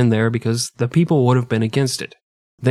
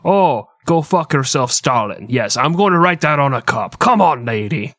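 put-on Russian accent; 2 semitones higher than usual. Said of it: "Your Russian accent is fucking atrocious".

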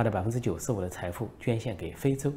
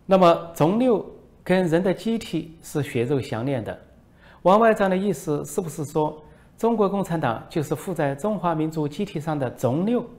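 high, put-on voice of a foreign reporter; mocking reporter voice; 7 semitones higher, 5 dB louder than usual. Foreign reporter needles the minister, high mocking voice. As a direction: play a sly foreign reporter, pitched up. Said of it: "外国记者说".

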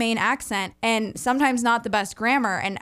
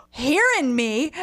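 put-on Maine accent; 3 semitones higher, slower than usual. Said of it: "an accent comes out".

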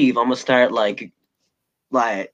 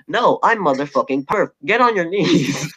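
mock dominant boast; 5 semitones higher than usual. Teasing his friend with a mock commanding voice. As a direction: play the smug dominator.

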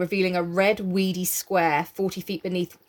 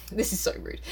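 whispered aside; 7 dB quieter, faster than usual. Real, not acted. Aside while reading.

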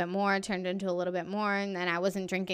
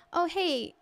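higher, polite counter voice at normal volume; ordinary ordering voice; 8 semitones higher, slower than usual. Shown as a demonstration. Customer asking the counter for ranch, ordinary ordering voice. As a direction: lightly imitate a customer asking a small favor. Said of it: "in this tone of voice".

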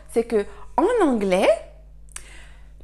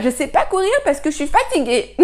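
mother's tired reply through laughter; laughing while quoting; 5 semitones higher, 5 dB louder, faster than usual. Retold or imitated. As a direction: laugh your way through the line. (en riant, voix de maman fatiguée)

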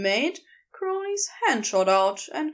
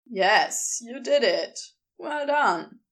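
Crowley's voice. Acted.

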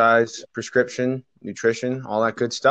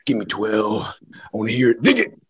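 wrestling promo; 3 semitones lower than usual. Pretend. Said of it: "I want this to be a wrestling promo".

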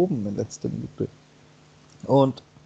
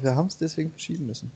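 mocking excuse voice; 3 semitones higher, 3 dB quieter, much faster than usual. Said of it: "Und die sagen immer noch".

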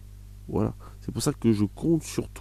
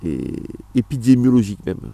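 nervous laugh; 3 dB louder than usual. Real, not acted. Laughs while listing own work.

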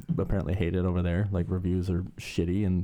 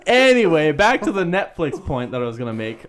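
trying not to laugh; 7 semitones higher, 9 dB louder than usual. Real, not acted. Forcing topic back mid giggles.

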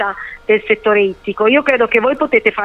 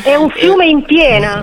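laughing; 5 semitones higher, 5 dB louder, slower than usual. Real, not acted. Laughing remark.

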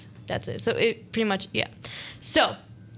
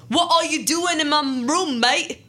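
slow, higher mock British accent, a bit louder; a half-made-up British accent, stretched out slowly; weird British accent; 5 semitones higher, 3 dB louder, slower than usual. Just-woken vampire asks the intruder why they're there, in a weird British accent. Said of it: "he asked in a weird British accent".

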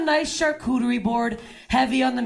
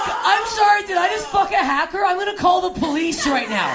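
mock panicked shout; 5 semitones higher than usual. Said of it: "I'm like".

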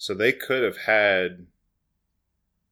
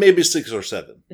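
laughing through the words, louder and higher; 5 semitones higher, 8 dB louder than usual. Real, not acted. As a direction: giggle out the answer. Laughing at own joke.

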